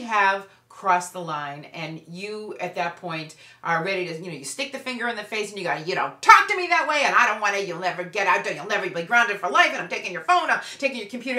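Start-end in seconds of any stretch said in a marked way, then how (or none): 5.8-11.4 furious parent yelling, pitch way up and loud; a parent completely losing their temper, shouting. Retold or imitated. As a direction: blow up at your teen, finger in their face. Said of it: "and you just completely lose it".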